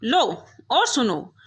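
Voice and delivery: slow, sulky mother-in-law retort; a sulky mother-in-law answering back; sheepish sulky retort. A narrator's reading. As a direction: drag it out, embarrassed but cross. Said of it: "माँ जी खिसिया कर बोली".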